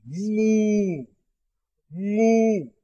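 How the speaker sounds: mou, nasal from the throat, held long; nasal syllable mou. Shown as a demonstration.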